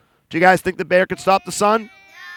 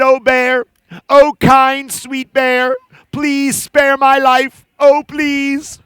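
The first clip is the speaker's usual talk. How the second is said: pleading chipmunk; 3 semitones higher, much slower than usual. Acted. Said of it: "put his little paws together".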